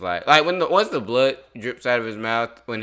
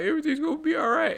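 1 mocking reassurance; 4 dB quieter, faster than usual. Mocking a bystander's comfort.

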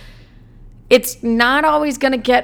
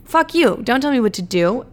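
mock angry retort; 3 semitones higher than usual. Rant against girl boss slogans.

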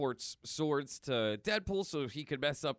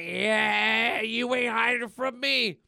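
higher, louder mock tough taunt; Logan taunting; 9 semitones higher, 8 dB louder, slower than usual. Logan taunting the man under the bodies, louder mock voice. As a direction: taunt him like you've found him. Logan finds hidden villain.

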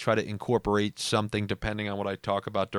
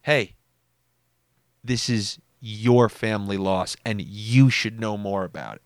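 pointed reproach; 2 semitones lower than usual. Retold or imitated. Cousin calling out his relatives, pointed. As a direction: put the loss squarely on the listener. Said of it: "It was him, like, saying".

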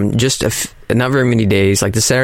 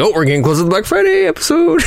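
excited shout; 10 semitones higher, faster than usual. Retold or imitated. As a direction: shout it with giddy anticipation. Voicing eager anticipation, shouted.

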